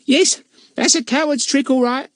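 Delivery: cheerful agreement; cheerful charwoman, pitched high. Acted. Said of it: "said Missus Cockles's cheerful voice".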